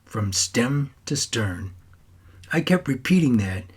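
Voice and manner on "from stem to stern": slow, every word of "From stem to stern" spaced out; slow quoted saying. Retold or imitated. Grandson fondly slowing down to quote Pops's saying. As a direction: savour Pops's old saying slowly. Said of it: "just like you always used to say".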